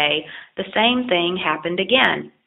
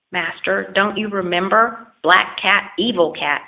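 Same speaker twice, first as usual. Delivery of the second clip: angry yelp; 2 semitones higher than usual. Acted. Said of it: "yelped the dog even more angrily".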